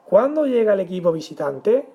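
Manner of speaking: "Cuándo llega el equipo visitante" rising at the end; question. Shown as a demonstration. Teacher reads example of a question, questioning. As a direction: ask it, stressing "Cuándo" and lifting "visitante". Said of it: "cuando hace una pregunta".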